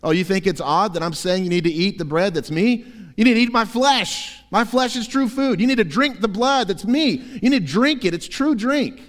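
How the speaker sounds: high, loud, pressing voice of Jesus; ramped-up Jesus. Acted. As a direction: push each line harder at the hearers. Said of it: "he ramps up the rhetoric".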